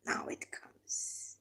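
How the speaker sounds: hushed slow whisper, teasing what comes next; suspense whisper. Real, not acted. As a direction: lean in and whisper it slowly, building suspense. Building suspense before the verse.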